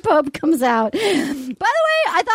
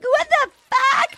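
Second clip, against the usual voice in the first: high, slow incredulous what the fuck; drawn-out shocked disbelief, a notch higher; mock shocked; 9 semitones higher than usual. Recapping the show, voicing Jasenia's shocked outburst. Retelling contestant's shocked reaction.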